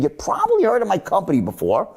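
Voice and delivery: quick, intriguing confidence; voice of mystery. Shown as a demonstration. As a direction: let them in on a secret. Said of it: "I lower to this voice of mystery".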